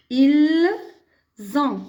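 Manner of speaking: "ils ont" split, z starting "ont"; liaison with z. Shown as a demonstration. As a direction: hold "ils", pause, then "ont" with z. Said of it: "La même chose".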